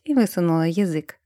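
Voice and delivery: ordinary delivery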